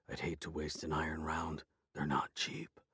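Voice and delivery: unvoiced whisper. A narrator's reading. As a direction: whisper it coldly. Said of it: "he whispered".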